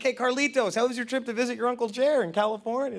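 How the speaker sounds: bright questioning relative voice; cheery relative. Retold or imitated. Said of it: "Been like".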